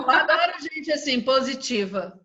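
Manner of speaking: said through laughter; laughing. Real, not acted. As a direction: laugh while you say it. Laughs with the winner.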